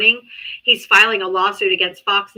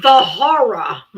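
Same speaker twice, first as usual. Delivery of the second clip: slow, theatrical "the horror"; mock horror; 4 dB louder, much slower than usual. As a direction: ham up the dread. Sarcastic mock shock, slow.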